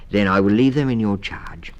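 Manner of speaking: brisk mother giving instructions; mother mouse. A narrator's reading.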